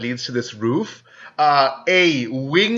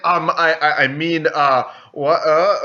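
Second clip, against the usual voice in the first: flustered, halting stammer; perplexed. Acted. Rival thrown by the curse, perplexed stammering. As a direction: stumble over false starts, baffled. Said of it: "he looks really perplexed".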